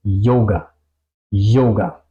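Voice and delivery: "yoga" opened with a German y-glide; Y como J alemana. Shown as a demonstration. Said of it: "suena un poco más como una J". ("yoga" con Y como jota alemana)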